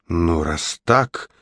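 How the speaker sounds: slow, soft displeased witch; frowning witch. Acted. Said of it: "нахмурилась ведьма".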